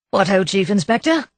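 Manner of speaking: a hint of hollow hearty cheer; forced heartiness. A narrator's reading. Husband greeting the inspector with forced cheer. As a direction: bluff it out cheerfully. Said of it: "unconvincing air of hearty cheerfulness".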